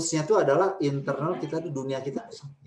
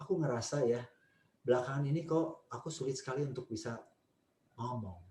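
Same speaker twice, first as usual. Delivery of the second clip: gentle I-statements. Shown as a demonstration. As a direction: open up gently about yourself. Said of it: "itu lebih menolong".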